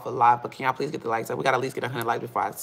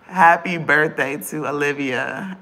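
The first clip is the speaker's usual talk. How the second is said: louder, slow "Happy birthday to Olivia"; loud birthday wish; 5 dB louder, slower than usual. Real, not acted. Birthday shoutout, loud take.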